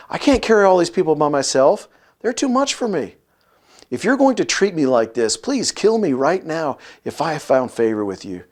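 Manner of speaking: mildly angry Moses, rising pleas; indignato. Acted. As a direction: read it as an aggrieved plea to God. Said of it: "Moses gets angry".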